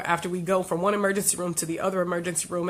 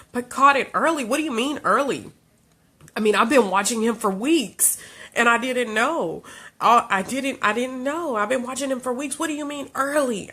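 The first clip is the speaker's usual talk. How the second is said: higher, raised voice in real anger; mother reliving the diagnosis, angry and raised; angry disbelief; 5 semitones higher, 3 dB louder than usual. Real, not acted. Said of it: "I was angry".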